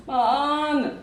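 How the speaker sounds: drawn-out playful elephant call; elephant cry. Pretend. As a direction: imitate an elephant for a toddler. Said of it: "മാന്ന് കരയുവാ ആന". (ആനയുടെ കരച്ചിൽ നീട്ടി അനുകരിച്ച്)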